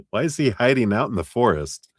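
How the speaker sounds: high, loud, exasperated where-is-he; exasperated mock search. Friend mocking the client's search for him, loud and high. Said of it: "this is like you going".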